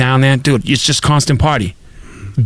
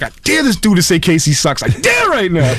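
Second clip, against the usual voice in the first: put-on drunken dare; 3 semitones higher than usual. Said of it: "'Cause I'm drunk".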